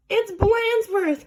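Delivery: high, slow excited cry; the guys crying out in recognition; cried out. A narrator's reading. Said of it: "cried the guys".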